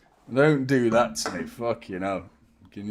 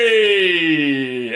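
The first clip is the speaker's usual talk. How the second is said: a mock stadium shout of hey; imitating crowd; 5 dB louder than usual. Imitating fifty thousand fans yelling at a player, mock crowd shout. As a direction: ape the whole crowd groaning at a player. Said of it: "of fifty thousand people going".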